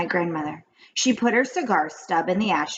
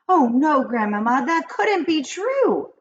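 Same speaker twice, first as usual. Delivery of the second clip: higher, pleading disbelief, slowing at the end; horrified plea; 8 semitones higher, 3 dB louder, slower than usual. A narrator's reading. Boy pleads with grandmother, horrified and high-pitched. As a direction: beg her to say it isn't so. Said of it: "I cried".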